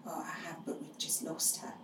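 hushed, almost breathless near-whisper; quiet reply. Retold or imitated. Grieving mother quietly tells a guest about her loss, hushed. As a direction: say it barely aloud, heart-sore. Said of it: "And I quietly said".

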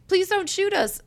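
high, hammed-up plea not to shoot; mock pleading. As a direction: beg like a cartoon crook. Kidnappers begging police, voiced.

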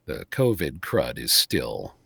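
hoarse from illness; rough, sick throat. Real, not acted. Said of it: "rest my voice again because, as you can hear".

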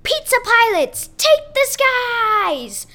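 high, slow heroic call; rallying call. Acted. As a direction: summon the fleet like a hero. Hero calls the pilots.

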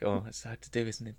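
normal talking voice

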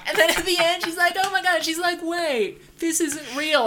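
high, laughing through the words; laughing retelling. Real, not acted. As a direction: giggle it out while telling. Laughing while retelling ending.

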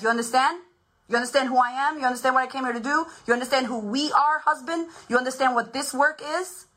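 acted-out triumphant challenge; insistent. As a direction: press the point home to a doubting husband. Acted triumphant questioning of husband.

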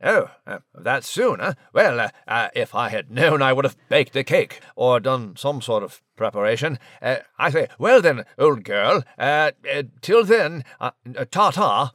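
a hint of a fussy English gentleman; polite, flustered British chap on the phone; posh British mouse. Nigel on phone with sister.

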